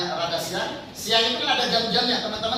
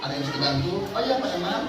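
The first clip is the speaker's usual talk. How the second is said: secretary and boss roleplay; 4 semitones lower than usual. Shown as a demonstration. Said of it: "Setelah selesai dia pimpinan ngomong".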